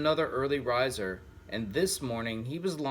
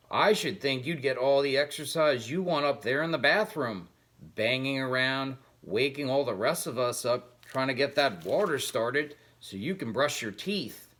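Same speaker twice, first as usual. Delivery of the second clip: sneering cat, lightly voiced; mock the mouse with a smug sneer; a snide cat, teasing and scornful; taunting cat.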